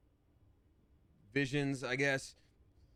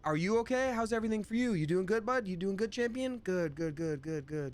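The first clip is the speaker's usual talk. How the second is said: overly caring voice; 9 semitones higher than usual. Retold or imitated. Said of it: "We're like".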